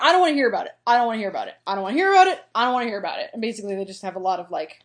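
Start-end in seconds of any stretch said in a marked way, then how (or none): 0.0-3.3 louder, repeating it over and over; stubbornly drown her out, hammed-up; childish refusal to listen, half-joking; mock frustrated outburst. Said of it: "She's like".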